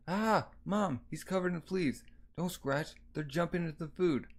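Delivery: a touch of high-pitched dismay; lightly voiced alarmed child. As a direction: lightly play a kid calling out in alarm.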